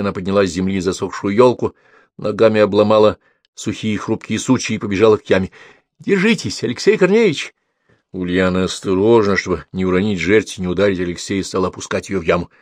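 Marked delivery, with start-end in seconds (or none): 6.0-7.5 encouraging call. A narrator's reading. Calls encouragement into pit.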